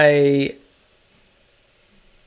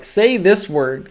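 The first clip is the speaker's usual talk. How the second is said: higher, drawn-out, slower prodding request; lightly mock someone prompting you, pitched up and slow; imitated eager request; 5 semitones higher, 4 dB louder, slower than usual. People hearing an accent ask for a word, imitated prodding. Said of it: "sometimes people are like".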